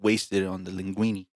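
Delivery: slow, drawn-out mock Italian accent. Joking about wasted food, playful Italian accent. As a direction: stretch it out in an Italian-American accent. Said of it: "I think we're gonna be Italian".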